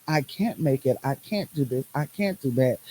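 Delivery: low, soft admission of defeat; understated hopeless self-talk; mildly defeated. Acted. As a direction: give up a little, voice dropping. Voices a defeated state of mind.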